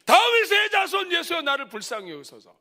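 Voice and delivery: starts high and loud, then settles; crying out. Shown as a demonstration. Pastor models the beggar's cry for the congregation, shouted opening. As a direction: shout the first words, fall back on the rest. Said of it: "그럼".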